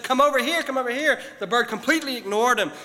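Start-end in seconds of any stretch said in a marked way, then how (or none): 0.0-1.2 much higher and louder, urgent calls; agitated shouting. Retold or imitated. Upset man shouts at stubborn bird, loud and high. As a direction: yell at the bird in frustration. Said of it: "took some steps toward the bird and said".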